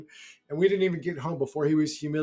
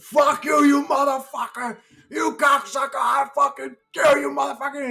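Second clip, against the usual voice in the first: high, raised-voice impression of raging father; dad's accented cursing; 9 semitones higher, 4 dB louder than usual. Dad cursing driver out the car window, high accented tirade. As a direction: rant in dad's Greek accent, pitched up. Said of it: "he's cursing at this dude".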